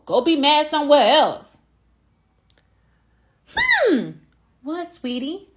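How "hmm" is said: high-pitched cross "hmm"; sulky high hmm; mad huff. Acted. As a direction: huff for mommy's attention. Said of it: "I'm mad".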